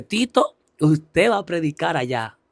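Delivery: deutlich höhere Stimme der Pastorin, gedehnt. Retold or imitated. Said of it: "cuando la pastora me dice".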